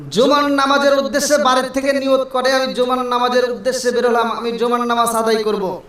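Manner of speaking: steady intoned sermon delivery; singsong preaching. Acted. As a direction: chant the promise to the congregation in even phrases.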